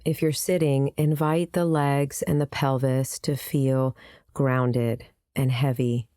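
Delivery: unhurried meditation guide with long pauses; calm, spaced-out guiding voice; guided meditation. Acted. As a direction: lead them gently into the practice, pausing between phrases.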